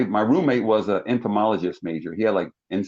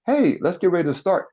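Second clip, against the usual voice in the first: coach calling out; 9 semitones higher than usual. Retold or imitated.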